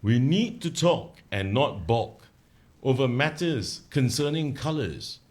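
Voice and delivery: slow recited verse; poem recital. Shown as a demonstration. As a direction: recite the ditty slowly. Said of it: "Okay, I'm gonna start now".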